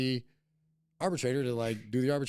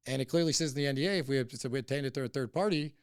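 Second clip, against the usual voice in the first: angry retold rant; 2 semitones higher than usual. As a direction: snap at them like you're back in that argument. Retelling a fight with the other side.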